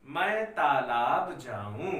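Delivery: slow, spaced-out reading for the class to follow; slow dictation. Shown as a demonstration. Teacher dictating Sanskrit lines to students, slow and clear. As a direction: spell it out slowly so children can write along. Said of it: "मैं धीरे धीरे बोल रहा हूं बच्चों".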